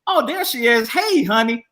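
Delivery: high-pitched, friendly demonstration greeting; polite tone. Shown as a demonstration. Husband defends how he greeted his wife, politely. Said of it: "polite tone to go to".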